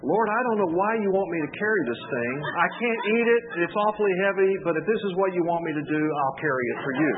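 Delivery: a hint of a dutiful ant grumbling to God; ant praying. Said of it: "put this caption with it".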